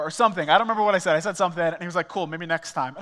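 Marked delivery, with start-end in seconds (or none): 2.1-2.9 easy, offhand friend; friend's breezy reply; casual brush-off. Retold or imitated. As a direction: toss it off lightly. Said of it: "we're being polite".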